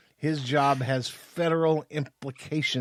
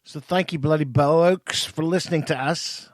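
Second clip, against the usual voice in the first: put-on terrible English accent. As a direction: ham up a bad English accent. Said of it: "that's the worst accent ever".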